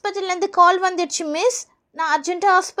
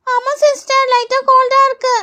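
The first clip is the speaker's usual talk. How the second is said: higher-pitched schoolkid voice; child pupil; 4 semitones higher, 4 dB louder than usual. Acted. Pupil telling the nurse about a cold, child voice. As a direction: answer as a little pupil.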